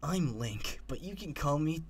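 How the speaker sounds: trying out a cutesy character voice; twinkling voice attempt. Shown as a demonstration. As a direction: feel your way into the twinkling voice. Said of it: "what voice did I use for that?".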